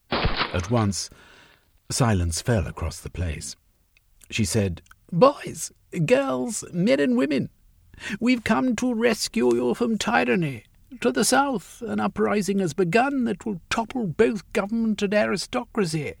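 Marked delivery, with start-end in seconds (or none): 5.1-16.1 high, ringing call to the workers; Sylvia's rallying speech. A narrator's reading. Sylvia proclaims the rescue to the workers, high and ringing. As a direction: rouse the crowd with a raised voice.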